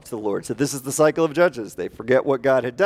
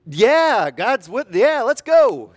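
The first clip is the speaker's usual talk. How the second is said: a quick, eager higher yes; 7 semitones higher, 4 dB louder, much slower than usual. Pretend. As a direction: jump at the call, all in. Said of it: "you could be like".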